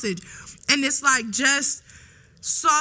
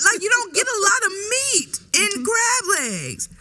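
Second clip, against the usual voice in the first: laughing insistence; 7 semitones higher, slower than usual. Real, not acted.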